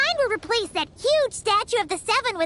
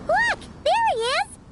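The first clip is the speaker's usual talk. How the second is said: excited pointing out; 10 semitones higher than usual. Acted. Spotting the old friend.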